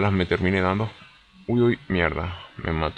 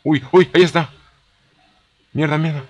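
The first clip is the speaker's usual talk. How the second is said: high, loud alarmed yelling; excited shout; 8 semitones higher, 7 dB louder than usual. Real, not acted. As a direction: yell as the enemy appears. Spots enemy mid firefight.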